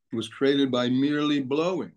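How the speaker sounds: "merely" set apart with deliberate emphasis; stress on merely. Real, not acted. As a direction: lean on the word "merely" as the key point. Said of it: "I'm using, emphasizing that word merely".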